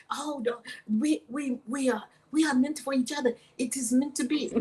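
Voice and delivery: lightly imitated Omani accent. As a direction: play the insistent suitor with an Omani accent. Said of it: "He's saying all this in his accent from Oman".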